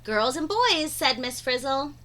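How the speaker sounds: put-on lively read-aloud for young kids; animated storytime voice; story narration. A narrator's reading. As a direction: read the picture book to the class with wide-eyed energy. Reads picture book aloud.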